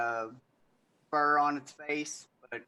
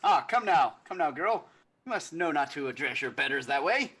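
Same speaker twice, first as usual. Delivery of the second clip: haughty noble; 9 semitones higher, 3 dB louder than usual. Acted. Noble scolds elf girl haughtily.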